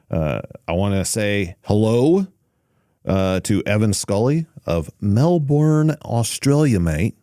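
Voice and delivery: put-on a clumsy stab at an Australian accent, drawn out; bad Australian accent. Greeting a listener in Melbourne, in a bad Australian accent. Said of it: "That was a horrible accent".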